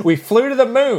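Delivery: joking through laughter; laughing at own joke. Real, not acted. Joke about Galaxy promos.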